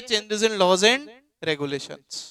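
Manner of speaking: slow, spaced dictation. Shown as a demonstration. Teacher dictating to students, slow and spaced. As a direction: give them time to write it down. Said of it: "लिखिए".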